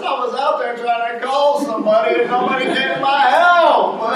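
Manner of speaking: hammed-up indignant protest; retold complaint. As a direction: complain like the neglected victim. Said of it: "I said".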